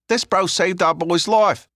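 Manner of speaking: loud, high-pitched street lad; Leon, pleading. Acted. Figure in narrated story.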